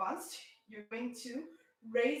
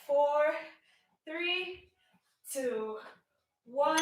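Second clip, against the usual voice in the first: loud countdown; 3 semitones higher, 5 dB louder, much slower than usual. Real, not acted. Workout countdown, pushing class.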